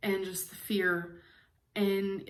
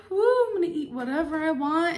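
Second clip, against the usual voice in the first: high, loud, careless mock voice; carefree mock voice; 7 semitones higher, 4 dB louder than usual. Vlogger mocking the idea she's careless, high mock voice. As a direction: toss it off like someone who doesn't care. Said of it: "It's not because I was just like".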